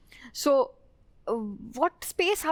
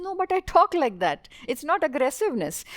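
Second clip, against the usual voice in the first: higher, fast, insistent protest; defending herself; 4 semitones higher, faster than usual. Retold or imitated. Teammate answering the men who police her pitch, higher and fast. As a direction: push back quickly, a bit raised. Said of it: "She says".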